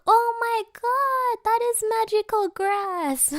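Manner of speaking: high, slow, drawn-out mock awe; hammed-up, high-pitched amazement. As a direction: exclaim it like an astonished onlooker. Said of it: "he leans in and is like".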